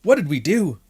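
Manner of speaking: exasperated disbelief at what you heard; appalled reaction. Retold or imitated. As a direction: lament it in exaggerated despair. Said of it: "And I was like".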